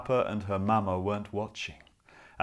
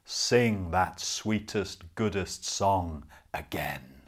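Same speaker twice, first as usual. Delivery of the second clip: slow, lower wolf voice; 4 semitones lower, slower than usual. Acted. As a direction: coax slowly like a great wolf. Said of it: "The wolf opened its mouth and spoke".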